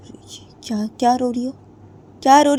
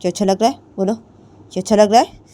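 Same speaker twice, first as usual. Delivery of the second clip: high, loud taunting demands; mocking bully; 5 semitones higher, 8 dB louder than usual. A narrator's reading. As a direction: taunt her to speak louder. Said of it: "जिया बोलती है". (ऊँची, तेज़ आवाज़ में ताना मारती)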